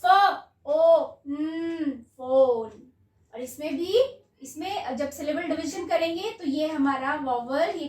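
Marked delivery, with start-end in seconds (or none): 0.0-2.9 फ, ओ, न split into slow sounds, then blended into फोन; sounding out. Shown as a demonstration. Teacher to children blending sounds into फोन, sound by sound. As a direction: stretch each sound, then join them into फोन. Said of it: "तो कैसे पढ़ेंगे?".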